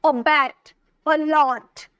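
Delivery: अबैट, अलॉट each with weight on the final syllable; stressed last syllables. Shown as a demonstration. Teacher demonstrating stress to students, अबैट and अलॉट stressed at the end. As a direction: stretch the ends of अबैट and अलॉट. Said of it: "stretch दे रहे हैं".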